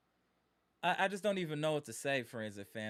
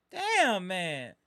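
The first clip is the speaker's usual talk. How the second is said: exasperated cry; 5 dB louder than usual. Real, not acted. Fan groaning at the loss.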